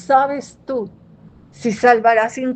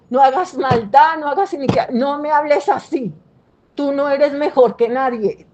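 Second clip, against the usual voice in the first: scolding her daughter; 3 semitones higher than usual. Retold or imitated. Mother scolding daughter Ana Lula, firmly. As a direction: lay down the law to a child. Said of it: "le digo".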